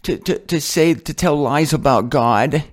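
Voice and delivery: lightly voiced offended believer, pleading; a hint of a scandalised churchgoer scolding Martin; mock pious critic. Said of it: "I'll put on the voice again".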